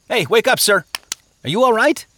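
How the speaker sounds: high, loud wake-up call. A narrator's reading. Christian shaking a sleeping stranger by the shoulder, calling out. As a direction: call out urgently to rouse a sleeper. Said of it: "Christian called out".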